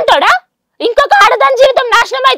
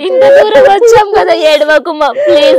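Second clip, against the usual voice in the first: tearful comforting. Real, not acted. Daughter comforting her crying mother, tearful soothing. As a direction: soothe her mother through own tears.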